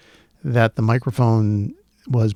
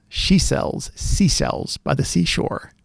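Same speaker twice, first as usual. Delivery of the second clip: whispered; 3 semitones higher, 4 dB quieter, slower than usual. Shown as a demonstration. Testing mic sibilance on a tongue twister, whispered. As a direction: whisper it slowly, stretching the s sounds. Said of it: "I'm gonna talk with some sibilants here".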